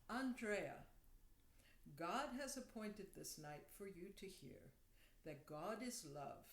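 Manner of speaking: lightly imitated Indian-accented English; a hint of the man from India, in measured phrases. Little man gives a stranger a message from God, light Indian accent. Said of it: "he speaks with an accent".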